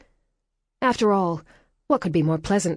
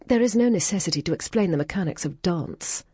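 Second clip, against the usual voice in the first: retort. Acted. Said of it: "Cordelia retorted".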